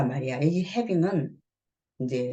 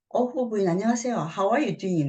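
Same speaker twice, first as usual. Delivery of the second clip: bright, higher neighbourly hello; cheery greeting; 5 semitones higher than usual. Acted. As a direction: greet her too cheerfully. Acting Susan greeting neighbour.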